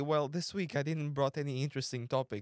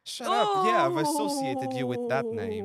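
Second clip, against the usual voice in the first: mock yelling; 9 semitones higher, 6 dB louder, slower than usual. Friend mock-yells at friend.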